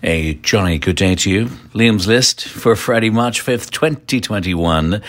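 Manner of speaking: put-on a jolly, over-the-top British accent; hammed-up British accent. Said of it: "cranking the Britishness up to eleven".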